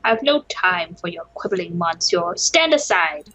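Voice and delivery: stern lawyer voice. Acted. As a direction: brush the guard off like a busy lawyer. Player voices lawyer Falcon.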